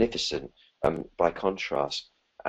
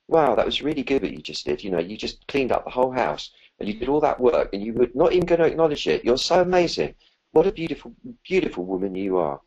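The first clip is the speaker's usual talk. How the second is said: rising into a higher, gushing kind voice; kindly voice; 5 semitones higher than usual. Shown as a demonstration. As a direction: praise yourself warmly, building up excitement. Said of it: "in a kindly voice".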